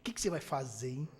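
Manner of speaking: soft sly gossip, smiling through the words; mock neighbour whispering gossip; gossiping neighbour with a smile. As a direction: lean in and stir trouble, sweetly smiling. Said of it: "E fala assim com aquele sorriso".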